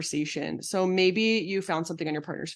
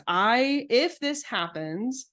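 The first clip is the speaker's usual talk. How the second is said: calm boundary statement; 3 semitones higher, slower than usual. Shown as a demonstration. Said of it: "the way that we recommend speaking boundaries".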